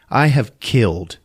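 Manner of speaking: slow, drawn-out villain boast; menacing boast. Retold or imitated. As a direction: stretch each word out slowly, mock-menacing.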